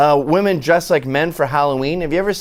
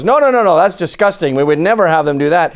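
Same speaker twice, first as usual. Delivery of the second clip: mock feminist protest; 3 dB louder than usual. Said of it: "brainwashed by feminists and goes".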